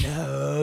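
"No" held long, imitating her; grandma's drawn-out no. Grandma refuses grandson's wish to go first, drawn-out "No". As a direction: stretch the vowel in "No". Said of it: "that's how she says it".

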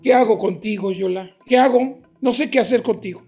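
loud, fed-up pleading; angry exasperation. Acted. Husband fed up with his wife, loud exasperated shouting. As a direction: shout in despair at her. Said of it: "Enójate más".

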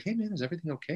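soft, hushed concern; quietly. Retold or imitated. Director checking on Rodney, quiet hushed voice. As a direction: lean in and ask under your breath. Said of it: "goes up to him and quietly".

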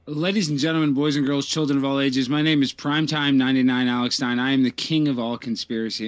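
booming circus ringmaster announcement. Acted. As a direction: call out to the crowd like a ringmaster. Circus-style opening of a debate.

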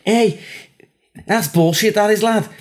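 high, indignant Scouser; Scouse accent. Pretend. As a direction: protest in a put-on Scouse voice. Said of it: "who has just lost fifty quid".

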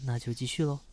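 soft, hushed massage murmur; soothing spa whisper. Acted. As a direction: speak gently like a spa therapist.

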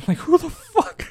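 high, slow laughing "who the fuck"; laughing disbelief. Real, not acted.

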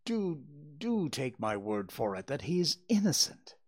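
storybook read-aloud with lightly voiced characters; story narration. A narrator's reading. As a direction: tell the tale to listeners, voicing each speaker. Reading a Sherlock Holmes story.

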